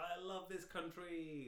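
mock patriotic speech. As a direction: stretch it out like a rally speech. Voicing a speech to the crowd.

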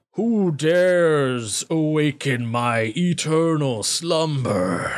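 slow booming voice from the dark; unearthly voice. Acted. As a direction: boom it out like an ancient monster. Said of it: "a voice that, like, booms over the entire area".

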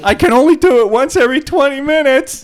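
bard voice. Pretend. Mocking bard voice.

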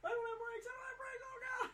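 hammed-up terror of a driver with no brakes; very high comic screaming; mock panic. Acting out a driver without brakes.

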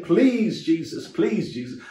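imitating a desperate plea, high on each please; pleading cry. Man on crutches begging Jesus in the prayer line, imitated pleading. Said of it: "he kept saying".

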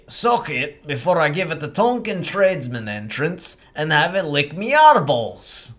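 a lightly put-on British accent, rough and crude; British accent rising into a shout at "me eyeballs"; character accent. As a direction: crude British thug, slowing down at the end. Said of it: "He gets to do an accent".

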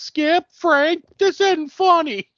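a hammed-up complaint in the dark; mock whiny complaint. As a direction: whine it like an annoyed girl.

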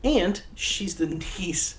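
hushed, slow gossip whisper. Real, not acted. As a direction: lean in and whisper the secret. Sharing a juicy fact.

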